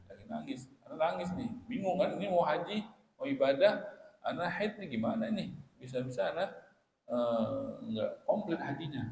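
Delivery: put-on high, pleading voice of a frightened young wife; worried tearful girl. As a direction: plead as if near tears over the spoiled hajj. Aisyah frightened and weeping.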